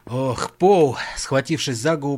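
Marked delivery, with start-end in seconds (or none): 0.0-1.0 groaning. Acted. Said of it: "простонал Джон".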